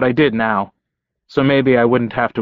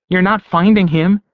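forceful; 8 semitones higher, 4 dB louder than usual. A narrator's reading. Jessie's rising anger, loud.

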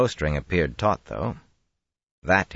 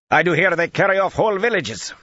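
much higher, loud fearful yell; shouting; 6 dB louder than usual. Acted. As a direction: call out accusing. Hidden men shouting.

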